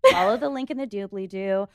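bright ad-read host voice; podcast hostess voice. Retold or imitated. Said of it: "really giving the podcast hostess voice".

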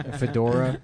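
usual speaking voice

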